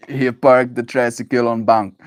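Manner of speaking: mock Russian accent, slightly stilted; playful Russian accent. Streamer jokes that bear talk sounds Russian, mock Russian accent. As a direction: put on a Russian accent for fun. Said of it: "Last part sounded Russian".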